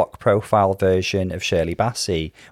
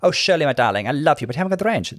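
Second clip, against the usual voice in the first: a famous singer's voice; 3 semitones higher, faster than usual. Retold or imitated. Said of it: "Jamie Theakston was interviewing her and saying".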